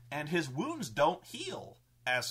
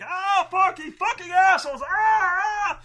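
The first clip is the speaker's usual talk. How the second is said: high, loud scream of a burned commander; pained furious scream; 11 dB louder than usual. Acted. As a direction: scream in pain and rage at the traitors. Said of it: "this Tempest is like".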